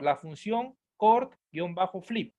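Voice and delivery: very slow, every syllable spelled out; slow dictation. Shown as a demonstration. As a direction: drag out cort-flip. Dictating a function name.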